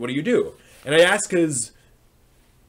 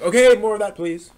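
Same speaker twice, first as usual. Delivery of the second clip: put-on eager kid; 8 semitones higher, 9 dB louder than usual. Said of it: "and be like".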